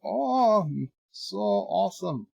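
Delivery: high, swooning mock rapture; hammed-up savouring, pitched well up; mock blissful delight. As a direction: act blown away by the food. Acting French Canadians savouring their food.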